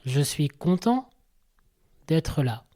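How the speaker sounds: slow, even delivery with a lift on content; unhurried, lightly rising content; first version. Shown as a demonstration. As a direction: say it slowly, simply. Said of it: "en première version".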